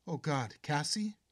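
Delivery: high, loud alarmed cry; startled cry. Acted. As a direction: gasp her name in shock. Mother startled by her daughter.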